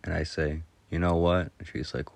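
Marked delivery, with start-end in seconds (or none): 0.9-1.5 deadpan attention-getter; straight-faced. Retold or imitated. Prankster setting up a joke on a friend, straight-faced. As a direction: say it with a straight face. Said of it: "a straight face and say".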